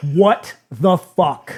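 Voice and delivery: mock upset reaction. Retelling a reaction to a movie scene: retelling own upset reaction. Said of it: "I got real upset again".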